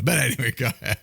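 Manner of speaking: ordinary talk, nothing marked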